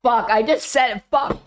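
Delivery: cursing while spitting water; sputtering through a mouthful of water; spitting out a drink. Real, not acted. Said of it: "And I just spit water everywhere".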